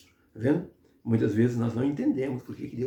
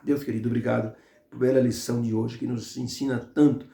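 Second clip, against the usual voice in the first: prayer. Acted. Closing prayer.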